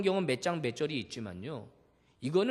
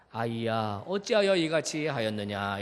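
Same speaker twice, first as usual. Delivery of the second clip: gentle rebuke; 6 semitones lower than usual. Shown as a demonstration. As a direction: ask it kindly, no anger. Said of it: "부드럽게 좀 이야기할 수". (부드럽게 타이르는 말투)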